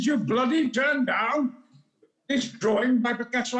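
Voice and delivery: angry father. Retold or imitated. Father scolding his son for refusing Picasso, an indignant outburst. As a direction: bark it out like a furious dad.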